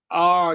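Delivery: held "آ" from the middle of the throat; ain demonstration. Shown as a demonstration. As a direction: say "آ" as a long Arabic ain. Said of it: "جہاں سے عین اور ہا نکلتا ہے".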